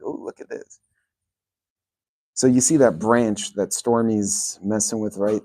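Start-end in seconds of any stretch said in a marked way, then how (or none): 0.0-0.8 hushed, awed whisper for the dogs. Retold or imitated. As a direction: voice the dogs' wonder in a whisper. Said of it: "They're like".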